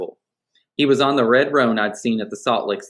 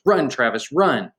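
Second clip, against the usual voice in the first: understated frightened call, swooping pitch; a touch of panic, read as story dialogue; mildly scared yell; 3 semitones higher, slower than usual. Acted. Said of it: "yelling in a scared voice".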